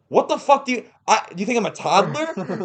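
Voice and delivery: high-pitched indignant protest; mock outrage. Customer whose food box the waiter opened, mock outrage. Retold outrage at being babied.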